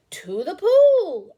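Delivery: loud slow high shout; yelled. Acted. Boy yelling back to the fireman, loud slow shout. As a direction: call it out with everything you've got. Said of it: "I yelled".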